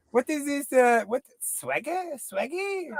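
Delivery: put-on high, puzzled old lady asking; granny confused. Granny puzzled by a slang word, mock confused. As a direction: mimic granny baffled by the word. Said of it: "She'd be like".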